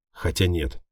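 plain reading voice

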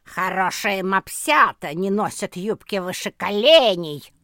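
put-on loud snarling scold from an old poodle; stern poodle growling at a pup. A narrator's reading. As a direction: growl it out, all teeth. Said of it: "Пуделиха вмиг зарычала".

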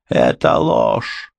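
high, slow outraged cry; shrieking denial. A narrator's reading. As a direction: shriek it's a lie.

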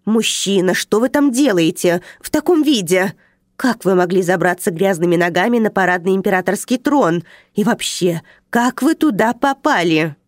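громко и выше, с возмущением; отчитай нарушителя, негодуя; возмущённый возглас. Acted. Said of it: "она возмущённо воскликнула". (смотрительница возмущённо кричит на мужчину на троне)

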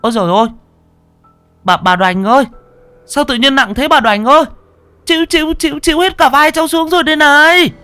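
loud, very high-pitched cries; strained howl, rising to a shriek; howling in distress. Acted. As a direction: cry out to the old woman under a crushing load. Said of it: "mấy thằng nó rú lên".

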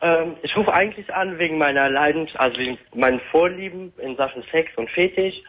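hands-free car phone sound; talking over a speakerphone. Real, not acted. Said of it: "sprichst du da mit einer Freisprechanlage". (über Freisprechanlage)

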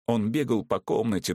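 usual speaking voice

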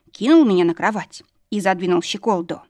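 plain reading voice

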